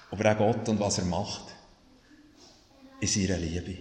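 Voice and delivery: low, soft, unhurried benediction; closing blessing. Real, not acted. Pastor blesses the congregation for the coming week, softly. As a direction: let the voice sink gently with pauses between phrases.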